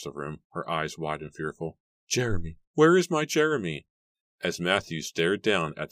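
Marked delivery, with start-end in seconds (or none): 2.1-3.9 frantic cry building higher and louder; distraught high-pitched question; shrieking. A narrator's reading. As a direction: call for him in mounting panic. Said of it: "Mary shrieked".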